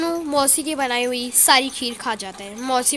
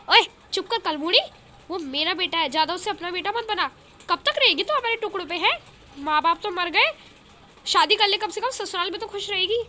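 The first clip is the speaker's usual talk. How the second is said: sharp, high, fast scolding; scolding sister; 5 semitones higher than usual. Acted. Elder sister scolding Shakuntala to marry, high and angry. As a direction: berate her younger sister, pitched up.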